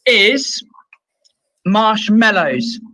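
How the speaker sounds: slow whispered reveal for suspense; dramatic whisper. Acted. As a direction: whisper it slowly, building tension. Game host reveals final item.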